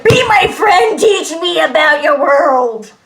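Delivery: high, loud clingy plea; eager loud plea. Retold or imitated. To classmates at school, loud clingy plea. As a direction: beg like an overeager new kid. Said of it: "and be like".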